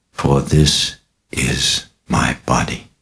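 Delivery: slow, intoned words of consecration; solemn liturgy. A narrator's reading. Priest at mass lifting the host, slow solemn intoning.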